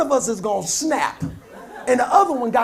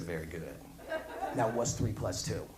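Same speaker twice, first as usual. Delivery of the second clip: mock calm teacher; 18 dB quieter than usual. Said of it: "I said".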